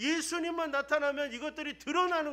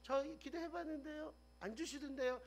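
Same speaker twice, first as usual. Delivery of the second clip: soft sulky complaint; 4 semitones higher, 11 dB quieter than usual. Retold or imitated. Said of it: "이렇게 얘기할 줄".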